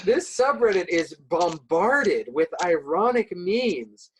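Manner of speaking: slow, halting mock YouTuber read; disjointed robotic PewDiePie. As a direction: parody a stiff, disjointed explanation. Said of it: "the most disjointed, robotic way possible".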